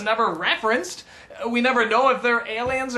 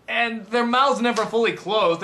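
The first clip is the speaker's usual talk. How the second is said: ordinary talk, nothing marked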